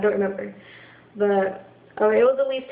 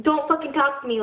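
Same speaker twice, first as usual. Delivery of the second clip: retold angry warning, pitched up; angry outburst; 4 semitones higher than usual. Telling mom off when calm is lost, angry. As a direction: warn them off angrily, higher but not shouted. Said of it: "there's already anger towards her".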